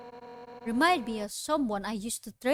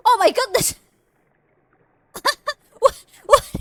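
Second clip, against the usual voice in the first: surprised; 11 semitones higher, 9 dB louder than usual. Real, not acted. Shocked at game event.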